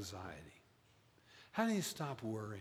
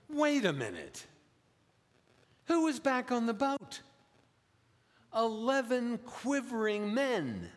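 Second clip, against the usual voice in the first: much higher, louder astonished ask; incredulous question; 12 semitones higher, 5 dB louder than usual. Real, not acted. Pastor pointing at the disciples on the boat, astonished. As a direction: pop up high in disbelief. Rhetorical surprise in sermon.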